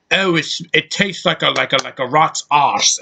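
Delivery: mock British accent; Miranda Hart. Reviewer mocking the heroine's friend, hammed-up British accent. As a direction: exaggerate a very British accent in mockery. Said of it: "She's just the most British".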